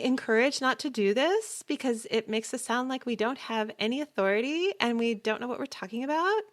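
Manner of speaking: statements ending in questioning rises on "authority" and "about"; uptalk. Shown as a demonstration. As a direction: lift "authority" and "about" as if unsure and asking. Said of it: "somebody winging it like that".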